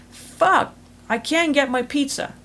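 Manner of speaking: hammed-up gripe about the last slice; mock frustration. Acted frustration over lost pizza.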